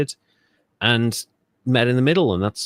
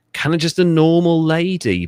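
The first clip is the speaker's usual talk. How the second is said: higher, louder imitated lady's voice; normal lady's voice; 6 semitones higher, 6 dB louder than usual. Describing her before the change, higher imitated lady's voice. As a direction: lift the pitch for an ordinary lady. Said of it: "but then she just pitched it down".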